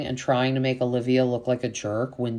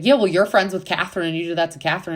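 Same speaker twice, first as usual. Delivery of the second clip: quick, higher mock retort; retold accusation; 4 semitones higher, 4 dB louder, much faster than usual. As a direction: imitate someone throwing blame back. Acting out an accusing argument.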